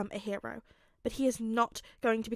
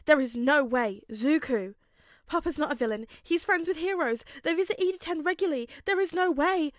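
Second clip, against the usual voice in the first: rising panic, louder and higher; panicked disbelief; 5 semitones higher, 5 dB louder than usual. Acted. Izuku refusing to believe his father is a villain, panicked. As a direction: voice climbing in denial.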